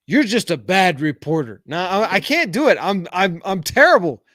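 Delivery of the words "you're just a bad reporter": Trump impression. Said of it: "let me try to do a Trump impression".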